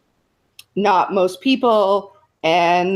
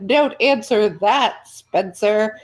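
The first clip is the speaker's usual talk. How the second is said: prissy lawyer; 3 semitones higher, slower than usual. Retold or imitated. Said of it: "he's like this prissy defense lawyer".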